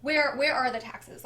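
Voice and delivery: mildly frustrated mimicked demand, halting start. Husband asking wife where the taxes are, mildly frustrated. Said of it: "Like, he's frustrated".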